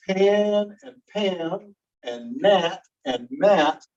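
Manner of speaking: slow, deliberate pan and Pam, Nat and Matt; minimal pair demo. Shown as a demonstration. Teacher sounding out minimal pairs to students. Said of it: "minimal pair".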